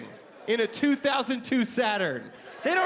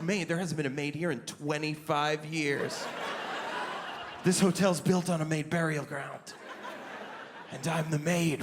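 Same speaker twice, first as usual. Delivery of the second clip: lower, softer mock-ominous clerk; spooky desk clerk; 6 semitones lower, 4 dB quieter than usual. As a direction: hams up a ghostly hotel clerk. Front desk clerk plays spooky.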